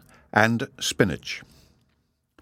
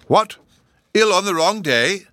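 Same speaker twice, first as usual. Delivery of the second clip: high and loud, scandalised; aghast at such an idea; shocked exclamation; 10 semitones higher, 6 dB louder than usual. A narrator's reading. Professor exclaims at illness on the wrong day, high and shocked. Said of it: "exclaimed the Professor".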